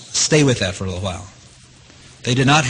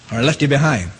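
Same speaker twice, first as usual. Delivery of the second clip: laughing. Real, not acted. Teasing laugh at congregation.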